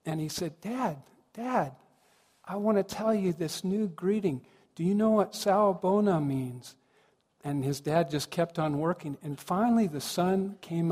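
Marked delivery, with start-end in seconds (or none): 0.6-6.8 put-on higher, eager child seeking attention; retold boy's excited plea, pitched up. Son calling to his busy dad, excited and higher. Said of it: "he was all excited".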